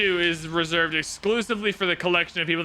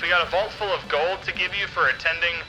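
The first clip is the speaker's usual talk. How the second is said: announcer voice; 6 semitones lower than usual. Pretend. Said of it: "You don't like my announcer voice?".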